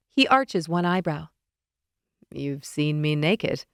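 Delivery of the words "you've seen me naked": a hint of a low, teasing Leonid; slightly deeper, sly voice; lightly lower teasing man. Leonid teasing narrator, lightly voiced.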